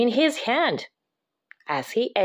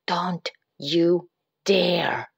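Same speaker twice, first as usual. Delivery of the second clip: creepy threat; 4 semitones lower, much slower than usual. Acted.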